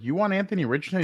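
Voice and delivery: quick, disbelieving rise; can't believe what you're hearing; asking in shocked disbelief; incredulous question. Retold or imitated. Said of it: "And I was like".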